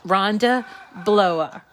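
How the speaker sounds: "Blower" with a New England dropped final r; New England accent. Real, not acted. Host reading out winner's surname, New England accent on "Blower". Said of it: "that's my New England accent".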